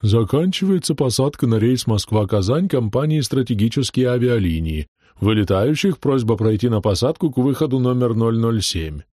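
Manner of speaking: lightly voiced female flight announcer; a hint of a chesty boarding announcement; airport announcer voice. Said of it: "грудным женским голосом диктора".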